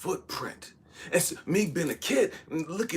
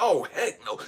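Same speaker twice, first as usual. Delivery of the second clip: mock spooked, scared, alarmed gut reaction; 3 dB louder than usual. Retelling seeing a duck dive into the water: imitating own scared reaction.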